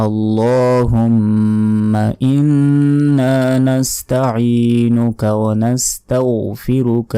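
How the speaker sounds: slow, drawn-out Arabic recitation; Quranic recitation. Shown as a demonstration. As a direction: recite the dua slowly, stretching each vowel. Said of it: "চলুন এটি আমরা সহি শুদ্ধভাবে শেখার চেষ্টা করি".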